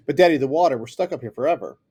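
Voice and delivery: put-on a scared girl pleading with her father; panicked plea.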